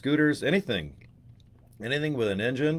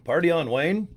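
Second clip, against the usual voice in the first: Garth from Wayne's World, lightly voiced, rising and higher; a hint of Garth, "Party on, Wayne" lifted up high at the end; Garth impression; 6 semitones higher than usual. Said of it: "Wayne and Garth".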